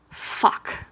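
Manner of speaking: a silent panicked swear to himself; whispered curse. A narrator's reading. Keith caught by Shiro's gaze, whispered curse. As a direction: breathe the curse under the breath.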